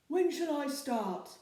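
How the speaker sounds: a troll keen to please; eager troll. A narrator's reading. Troll asking captain when to start, eager.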